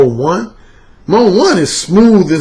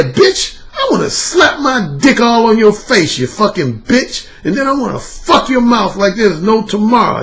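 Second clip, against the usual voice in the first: sneering demo of a harsh insult, higher; higher, hostile, demeaning demo; harsh contemptuous; 4 semitones higher than usual. Shown as a demonstration. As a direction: spit it out with contempt. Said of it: "Mode four, I told O'Shea, is like".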